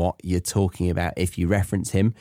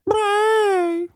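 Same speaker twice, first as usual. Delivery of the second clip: squealed high cry of joy; high cheer cry. Shown as a demonstration. Jingle ends on a very high squealed cheer. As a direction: shriek it like a victory yelp. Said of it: "Meaning, yay".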